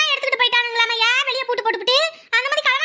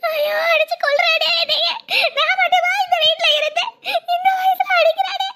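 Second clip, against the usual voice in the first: mock wailing; 3 semitones higher than usual. Old woman wails being beaten.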